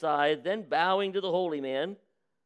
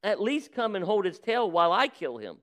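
desperate plea; 5 semitones higher than usual. Acted. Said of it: "sobbed the farmer in despair".

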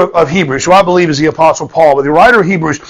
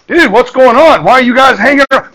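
lightly acted, higher-pitched questioning; mildly incredulous youngster, pitched up; puzzled youth; 6 semitones higher than usual. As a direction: play a casual kid asking what's up. Voices young David questioning the soldiers.

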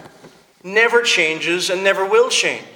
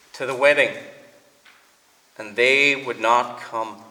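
scripture reading. Acted. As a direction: read it out deliberately, with pauses between phrases. Reads the scripture passage aloud.

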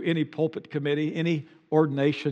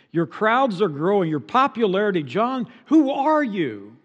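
questioning John; 5 semitones higher, 5 dB louder than usual. Retold or imitated.

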